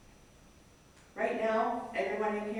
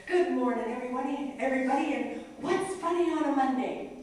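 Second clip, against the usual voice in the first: bright loud greeting; 6 semitones higher, 3 dB louder than usual. Retold or imitated. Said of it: "I go over and I say".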